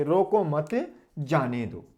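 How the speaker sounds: रोको मत जाने दो drawn out slowly; slow phrasing demonstration. Shown as a demonstration. Teacher introducing another comma example, saying रोको मत जाने दो slowly. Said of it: "एक एग्जांपल और ले लेते हैं".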